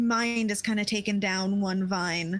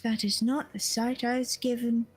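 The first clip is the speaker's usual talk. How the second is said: mysterious seer voice. Acted. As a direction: speak like a cryptic seer. GM voices seer character Raven.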